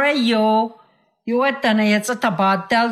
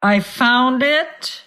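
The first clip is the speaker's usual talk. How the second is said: angrily; 4 semitones higher, slower than usual. Acted. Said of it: "replied the other angrily".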